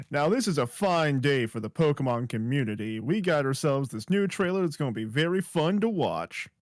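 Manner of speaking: hyped-up play-by-play announcer; sports announcer voice. Pretend. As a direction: call it like a sports commentator. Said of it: "I gotta do my best sports announcer voice".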